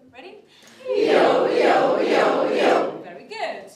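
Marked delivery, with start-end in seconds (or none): 0.9-3.0 rock the voice side to side; cradle yo-yo swoops. Shown as a demonstration. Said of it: "with the cradle one".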